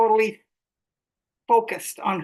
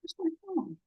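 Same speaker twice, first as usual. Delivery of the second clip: high call to someone in another room; yelling across the room; 6 semitones higher, 9 dB quieter than usual. Real, not acted. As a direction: call out from a distance. Calling out to find phone.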